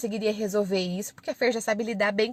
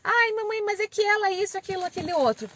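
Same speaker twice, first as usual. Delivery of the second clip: high-pitched child's excuse, imitated; protesting child; 9 semitones higher than usual. Daughter answering mum's correction, imitated high-pitched protest. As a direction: play a daughter protesting to mum in a higher voice.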